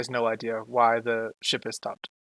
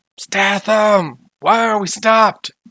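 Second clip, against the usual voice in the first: very loud, high scream, stretched long; 9 semitones higher, 11 dB louder than usual. Voicing a character pounding on a door: screaming. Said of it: "he's screaming".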